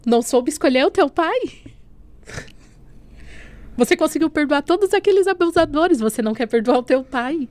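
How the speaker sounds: rising stern rebuke. Retold or imitated. God rebukes her, voice rising.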